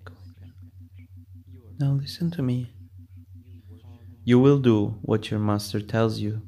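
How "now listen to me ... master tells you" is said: commanding. Acted. Commanding hypnotist gives orders.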